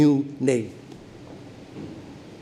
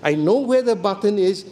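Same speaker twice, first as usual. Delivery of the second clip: mock casual. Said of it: "It's just".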